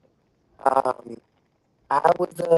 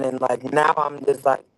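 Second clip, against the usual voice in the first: bad connection; 6 dB louder than usual. Real, not acted. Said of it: "You sound a little bit choppy".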